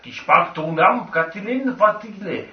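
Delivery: fake draconic. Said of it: "what's the draconic word for thank you".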